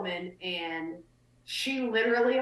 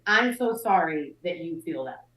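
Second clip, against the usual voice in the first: slow insincere apology; 4 semitones lower than usual. Retold or imitated. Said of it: "she's like".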